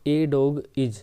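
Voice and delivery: slow demo with a said as a full "ay"; a dog is read out slowly with "ay"; stressed ए. Shown as a demonstration. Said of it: "इसको हम बोलते हैं ए".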